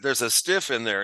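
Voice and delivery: a wry, offhand "There's a stiff in there"; Wally's line, imitated. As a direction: lightly mimic the cop-show casual tone. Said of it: "I love the way he says it".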